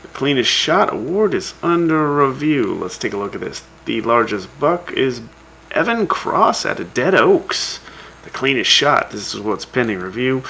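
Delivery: lively radio scoreboard read; radio announcer. Acted. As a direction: read out the scores like a show host. Reads hunting scores on radio.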